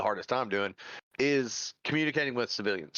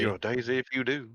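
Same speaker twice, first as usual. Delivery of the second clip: Doc Holliday Southern drawl; 3 semitones higher than usual. Pretend. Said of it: "the Doc Holliday accent".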